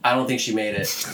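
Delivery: flat monotone voice; deadpan like an unmoved actor. Retold or imitated. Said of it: "the most monotone voice".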